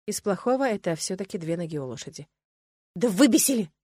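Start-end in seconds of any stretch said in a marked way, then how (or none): 2.9-3.7 louder, snorted irritation; snorting mare. A narrator's reading. Injured mare snorting about the squirrels. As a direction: huff it out like an annoyed horse. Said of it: "фыркнула Ириска".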